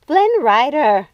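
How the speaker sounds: loud slow snapped name; curt irritated retort. A narrator's reading. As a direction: snap it impatiently. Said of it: "snapped Lucinda".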